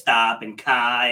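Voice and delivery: dropped R's in a New England accent; New England "kai" with the R left off. Shown as a demonstration. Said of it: "known for not pronouncing our R's".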